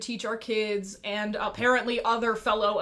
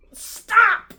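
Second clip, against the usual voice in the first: loud, much higher yell breaking into a laugh; 11 semitones higher, 13 dB louder than usual. Retold or imitated. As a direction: blurt it out laughing in exasperation. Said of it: "I'm like".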